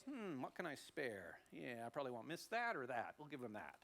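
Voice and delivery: understated, reluctant pondering; grudging Cain. Acted. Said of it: "Cain goes".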